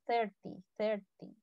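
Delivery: "Thirty" with a soft th like Castilian Z. Shown as a demonstration. Teacher helps struggling students, "Thirty" pronounced with a Z-like th. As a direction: start "Thirty" with tongue-between-teeth Z, then ER-ti. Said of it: "díganlo como una especie de Z".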